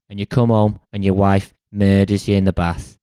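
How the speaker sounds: put-on light Scouse accent as a weary old king; lightly voiced Scouse Agamemnon. Agamemnon warns schoolkids in a light Scouse accent. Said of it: "I've made him Scouse".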